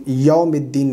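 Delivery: یوم as "yom", without the w-glide; wrong vowel. Shown as a demonstration. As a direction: say یوم quickly with a plain o. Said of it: "نہیں".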